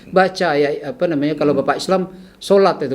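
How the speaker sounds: retold exhortation with mild impatience; a bit annoyed. Patient urging a sick man to pray, mildly impatient. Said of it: "Saya agak kesel".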